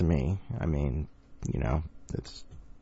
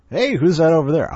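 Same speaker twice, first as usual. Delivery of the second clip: excited bystander; 9 semitones higher, 6 dB louder than usual. Pretend.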